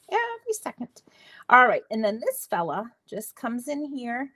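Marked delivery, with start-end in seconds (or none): 0.1-1.0 whispered repeat; light whispered echo. Real, not acted. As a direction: breathe the repeat as a secret. Whispered self-warning.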